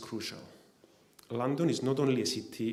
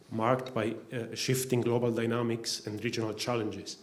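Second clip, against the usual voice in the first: winded from running, short breaths. Real, not acted. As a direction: speak while catching your breath. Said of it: "I'm a bit out of breath".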